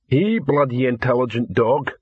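lightly voiced lumbering troll; matter-of-fact troll voice; second troll. Second troll praising the dog, lightly voiced.

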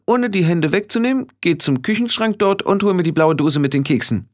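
abwechselnd hoch und ruhig; anleitende Hexe. Acted. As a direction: befehlen und zugleich ermutigen. (bestimmt ermutigende Hexe)

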